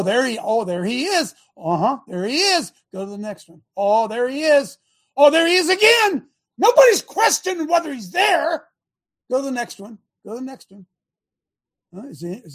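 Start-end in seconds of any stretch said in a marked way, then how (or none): 3.8-8.7 higher and louder, mock astonishment at each photo; mock surprise. Real, not acted. Host mocking the court's photos for the viewers, in mock surprise. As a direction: play it up like a sarcastic gotcha reveal.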